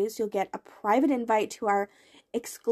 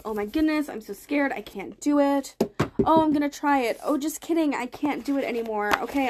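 mock scared self. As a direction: play the anxious self who keeps giving up. Voicing her fearful, stuck self.

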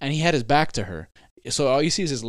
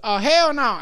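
high, loud shocked "hell no"; mock shocked lady; 12 semitones higher, 7 dB louder, slower than usual. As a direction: play the startled woman in the park. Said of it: "and she goes".

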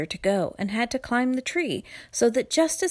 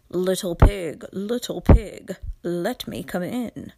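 loud, booming wolf at the door; 4 dB louder than usual. Acted. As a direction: call out like a big bad wolf.

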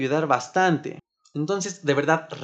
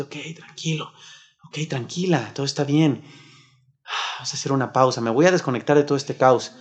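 soothing self-talk; 3 semitones lower than usual. Shown as a demonstration. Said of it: "acaríciate tantito el brazo y dite". (autoconsuelo suave y tierno)

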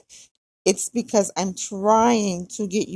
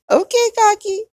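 high, louder, laughing through the words; laughing repeat; 13 semitones higher, 7 dB louder than usual. Real, not acted. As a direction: say it again, still laughing.

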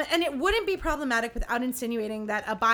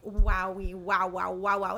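dazzled artist; 5 semitones lower, slower than usual. Retold or imitated. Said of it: "he thinks Charlotte is just like".

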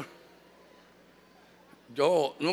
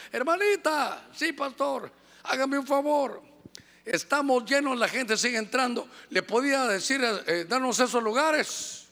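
higher, sugary pleading voice; polite request; 5 semitones higher than usual. Retold or imitated. Pastor sweetly asks the angry mother to move. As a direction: coax her politely to give up seats.

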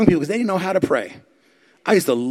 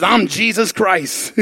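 laughing retelling; 4 semitones higher, much slower than usual. Retold or imitated. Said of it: "He says".

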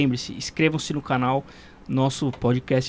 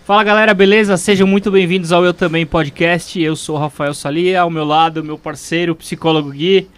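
louder, higher, pumped-up podcast intro; energetic retake; 5 semitones higher, 7 dB louder than usual. Shown as a demonstration. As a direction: open the show with more energy. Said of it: "vamos voltar".

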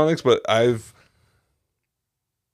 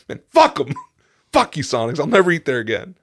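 higher, retold indignant venting; angry; 3 semitones higher, 3 dB louder than usual. Customer retelling his furious drive away, mock-bitter vow. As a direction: swear them off in comic outrage. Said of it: "I was so mad".

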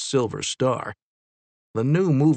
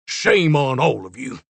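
shouted; 4 dB louder than usual. A narrator's reading. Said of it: "he shouted at the others".

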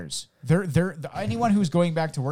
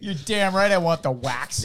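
mock shout; 2 semitones higher than usual. Shouted car wash customer bit.

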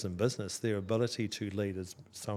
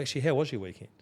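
sincere check-in, a little more emphasis; genuinely interested; 4 semitones higher, faster than usual. Acted. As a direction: ask as if you really want to know. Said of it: "don't know who the person is".

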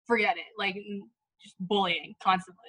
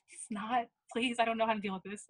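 softly pleading; 7 dB quieter than usual. Retold or imitated. Retold pleading with crying friend.

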